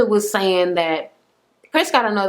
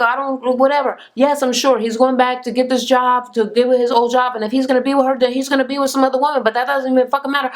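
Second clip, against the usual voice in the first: higher, imitated defensive rant; going off; 5 semitones higher, faster than usual. Daughter defending the man to her mother, going off. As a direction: act out an irritated daughter ranting. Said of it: "going off".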